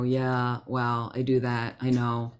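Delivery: low, slow, gently conceding; gentle reply. Retold or imitated. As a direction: imitate a mild, accepting answer. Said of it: "very gently".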